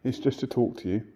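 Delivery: quiet sincere reassurance; soft reassuring. Real, not acted. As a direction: soothe the spirit softly. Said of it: "not here to upset you".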